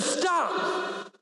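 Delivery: forceful whispered command; commanding the storm. Acted. Jesus orders the raging sea to stop, forceful whispered command. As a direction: hush the sea with one sharp word.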